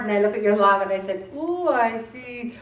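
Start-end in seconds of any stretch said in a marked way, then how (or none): 1.3-2.5 slow, louder teasing tut over the log; mock scolding. Coach reading a dieter's food log, slow mock scolding. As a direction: drag it out like a tutting coach.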